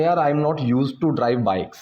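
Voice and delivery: slow, deliberate example sentence; slow teaching demo. Shown as a demonstration. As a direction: lay each word out slowly. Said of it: "तो मैं उसको बोलूँगा". (धीरे-धीरे समझाते हुए)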